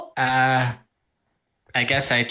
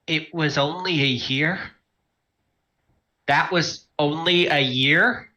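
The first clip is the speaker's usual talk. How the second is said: stunned disbelief; 3 semitones higher than usual. Acted. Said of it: "Elliot's dro-, jaw drops figuratively to the floor".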